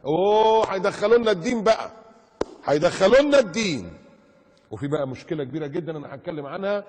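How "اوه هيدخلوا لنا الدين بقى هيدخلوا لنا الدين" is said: loud, high hammed-up outcry; mock alarm. Preacher mimics critics fearing religion intrudes, mock alarm.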